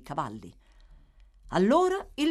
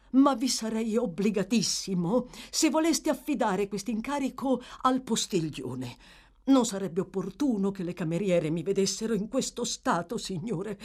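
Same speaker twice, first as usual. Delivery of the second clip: lightly voiced fussy servant, pitched up; dignified manservant; 4 semitones higher than usual. Servant worried the maids will see him, deferential. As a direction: request it with wounded dignity.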